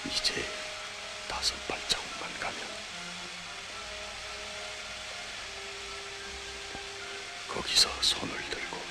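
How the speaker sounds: whispering. Acted. Tense whispered instructions.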